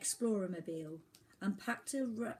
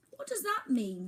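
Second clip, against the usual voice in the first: wondering; 10 semitones higher, 5 dB louder than usual. A narrator's reading. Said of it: "wondered Oliver".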